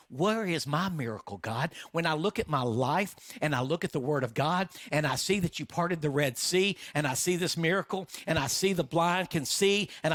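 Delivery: mounting, urgent complaint to heaven; impassioned plea. Acted. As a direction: cry out in frustrated prayer, phrases piling up. Acted anguished plea to God.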